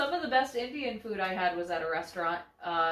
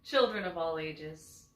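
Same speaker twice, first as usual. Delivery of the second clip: slow, drawn-out showman greeting; grand host opening; host welcome; slower than usual. Acted.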